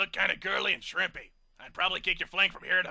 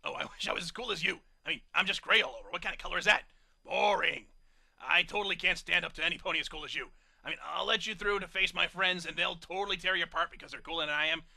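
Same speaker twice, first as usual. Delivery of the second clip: loud, gushing excitement in the brute voice; star-struck fanboy; 7 dB louder than usual. A narrator's reading. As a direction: fawn over your hero. Hokey Smokes freaks out, star-struck.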